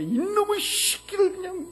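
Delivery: high, loud retold fury; angry outburst. Father wanting to scold his defiant son, high angry outburst. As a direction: burst out as an exasperated father. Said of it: "막 화를 내서".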